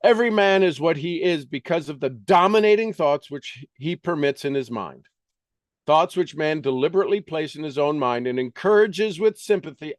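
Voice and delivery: quick, earnest reading aloud from a self-help book; reading a self-help classic aloud. Acted. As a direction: read the passage briskly like scripture.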